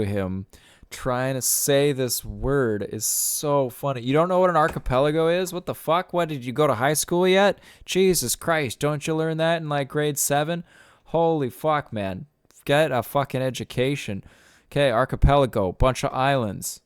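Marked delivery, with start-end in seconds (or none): 4.0-14.2 higher, incredulous teasing rant; exasperated mock scolding. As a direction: scold him like a dumb kid, pitched up. Mock ranting at Bill Burr.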